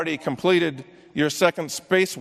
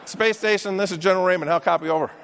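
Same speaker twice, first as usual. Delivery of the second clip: radio call; 5 semitones higher, 5 dB louder, faster than usual. Real, not acted. Radio call to space station.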